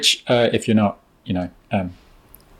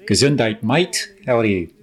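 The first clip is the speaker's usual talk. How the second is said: bad South African accent. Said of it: "That was a bad South African accent".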